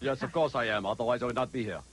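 put-on mystery guest voice; Brian Brunschweiger voice. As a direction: answer in a lightly disguised character voice. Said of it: "I do my Brian Brunschweiger voice".

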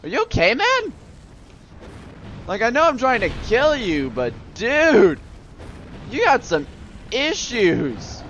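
put-on high-pitched playful Aussie accent; Australian accent. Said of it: "I'm stuck on an Australian accent".

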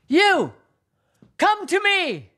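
high loud call; shouting. Acted. Narcissus calling the voice to come, loud shout. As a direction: summon them loudly. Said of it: "he shouted".

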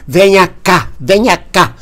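loud, firm summons; forceful call. Retold or imitated. Dória calling out the hecklers, loud and forceful. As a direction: call him over hard, like picking a fight. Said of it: "Ele falava bem assim, bem forte".

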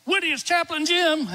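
high greeting right at his ear; called into his ear. Retold or imitated. Chaplain speaking right into a dying man's ear, high and clear. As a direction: announce yourself close and clear. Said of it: "I get right in his ear".

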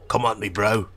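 lightly voiced London hard-man taunt; a cocky dare with just a hint of Statham; Jason Statham impression. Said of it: "Like a Jason Statham voice".

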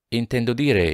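pressing on. A narrator's reading. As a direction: press the question a little further. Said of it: "incalzò Jonas".

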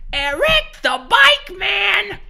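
high, slow jingle-style announcer; commercial announcer. Retold or imitated. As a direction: drag it out like a cheesy ad. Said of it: "somebody just goes".

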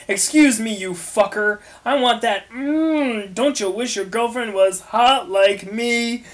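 understated sassy yell; mild mock scream. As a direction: sass it at him, half-yelled. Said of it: "Triss screamed".

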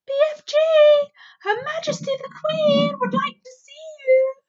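high, loud call across the garden. Acted. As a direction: shout it out to the giant outside. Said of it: "called out".

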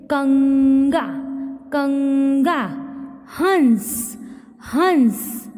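कंगा and हंस said with a clear nasal ङ and ं through the nose, each word twice; teacher demonstrates anusvar to students, nasal and deliberate; nasal anusvar demo. Shown as a demonstration. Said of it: "इसका उच्चारण नाक से होता है".

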